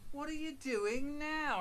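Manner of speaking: high, loud stretched mum question; mum catching him. Retold or imitated. Mum catches her son sneaking, high loud demand. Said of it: "standing over me going".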